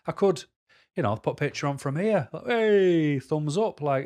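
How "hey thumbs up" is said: cheery mock greeting. Mock cheesy photo greeting.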